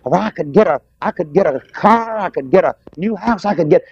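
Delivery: greedy congregant. Retold or imitated. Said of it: "you just say".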